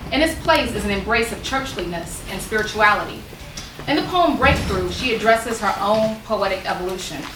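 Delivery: measured, articulate public reading; formal read-aloud delivery; essay reading. Acted. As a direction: read the essay out to an audience, stressing phrase openings. Reads essay excerpt aloud.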